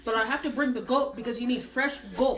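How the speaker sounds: put-on Indian English accent; careful, lilting imitation Indian accent. Shown as a demonstration. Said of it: "I'll do the Indian voice".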